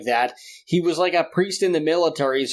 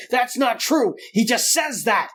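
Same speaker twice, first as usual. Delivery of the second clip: higher, stubborn mock dad; 6 semitones higher than usual. Dad dismissing the singer.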